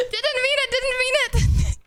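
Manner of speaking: high, whiny fake sorry; mock apology. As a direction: squeak it out like a guilty kid. Teasing chat, mock apology.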